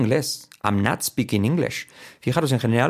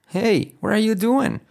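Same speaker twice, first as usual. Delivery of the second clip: high, slow, insistent "Hey, what are you doing?"; demanding hey; 11 semitones higher, slower than usual. Shown as a demonstration. Teacher demonstrating how to demand an answer. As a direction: call someone out sharply with "Hey". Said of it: "Nada de what are you doing, sino hey".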